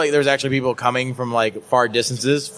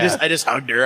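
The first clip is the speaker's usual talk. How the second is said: ordinary delivery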